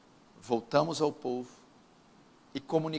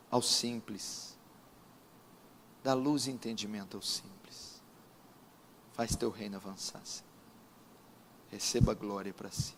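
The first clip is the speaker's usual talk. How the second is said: solemn prayer. Real, not acted. Pastor pleading with God for the congregation, solemn prayer.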